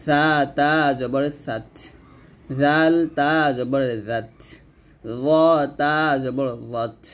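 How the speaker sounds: slow spelling, "সাত", "জাত", "রত" each ending in released breath; hams drill. Shown as a demonstration. Teacher drills tongue letters for learners, slow with breathy final ত in "সাত". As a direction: hold letter names long, puff air on the ত of "জাত". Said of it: "তাকে গিয়ে ধরে হামস করবেন".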